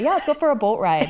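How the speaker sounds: put-on a light Minnesota accent, quick and bright; playful Minnesota accent on a boat invitation. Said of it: "my Minnesota accent".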